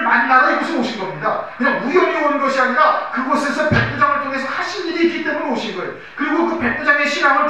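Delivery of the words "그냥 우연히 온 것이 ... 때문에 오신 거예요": normal talking voice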